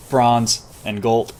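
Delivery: slowed by hiccups. Real, not acted. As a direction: speak between hiccups. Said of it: "I got the hiccups".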